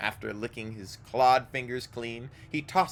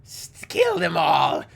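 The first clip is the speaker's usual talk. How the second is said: snarling kill cry; enraged ghoul; 5 semitones higher, 8 dB louder, slower than usual. Acted. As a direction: spit it out in rage. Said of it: "becomes more agitated, gnashing her teeth".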